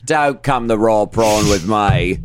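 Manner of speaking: mild bad Australian accent; horrible Australian accent. Host adds Aussie slang in a put-on bad Australian accent. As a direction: play the tough Aussie, lightly. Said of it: "our horrible Australian accent".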